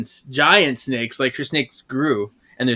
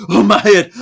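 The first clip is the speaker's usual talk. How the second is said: mock groaning; 7 semitones higher, 10 dB louder than usual. Character moans about his head.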